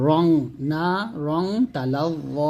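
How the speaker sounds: রং with a held "ng" hum, না stretched; nasal ghunnah. Shown as a demonstration. Teacher modelling the phrase, slow held nasal on রং. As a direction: slowly hum the end of each রং. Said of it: "এরকম বলতে হবে".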